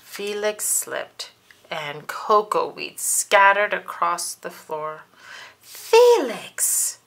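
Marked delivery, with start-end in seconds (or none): 5.6-7.0 high, loud yell of his name; mom yelling. Acted. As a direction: shout his name across the kitchen. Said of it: "yelled his mom".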